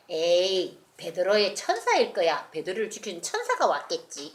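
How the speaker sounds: scoffing. Acted. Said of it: "그러니까".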